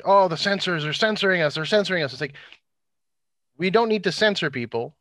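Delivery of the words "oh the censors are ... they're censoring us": mocking whine. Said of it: "And then, like".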